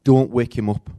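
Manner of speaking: put-on fast, loud mum warning the kids; mother warning her daughter not to wake the baby, loud and quick; mum's warning. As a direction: rattle it off as a busy mum. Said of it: "I used to say".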